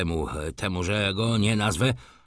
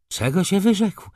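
angry question; 8 semitones higher than usual. A narrator's reading. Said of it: "spytał już rozgniewany pan Ignacy".

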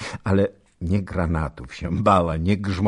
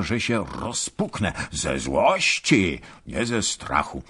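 put-on hurried old man. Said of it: "mówił pospiesznie do Ketlinga".

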